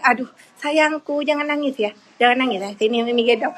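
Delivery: soothing mother. Real, not acted. Mother offering to pick up her crying child, soothing.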